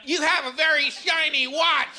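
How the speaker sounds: dad answering the teacher, lightly dazed; lightly voiced spaced-out kid. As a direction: say it like your mind drifted. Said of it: "looked at her and went".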